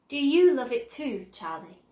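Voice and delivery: lightly voiced Wonka, earnest question. A narrator's reading. Wonka seriously asking Charlie about the factory, earnest. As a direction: ask it seriously, leaning in.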